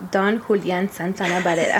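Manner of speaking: Don Julian Santana Barrera in a Spanish accent. Shown as a demonstration. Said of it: "if you wanna say it in a Spanish accent".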